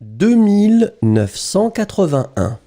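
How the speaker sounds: dictating clearly to the class; slow school dictation. Shown as a demonstration. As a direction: read the number out for dictation. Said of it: "I will read it twice as usual".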